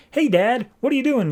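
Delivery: Kara checking on her dad, voiced high; teen daughter. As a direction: sound like his young daughter. Daughter Kara asking her father.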